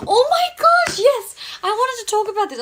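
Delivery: loud, very high excited squeal; real excitement. Real, not acted. Seeing a topic she wanted to discuss, excited squeal. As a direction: burst out loudly with delight.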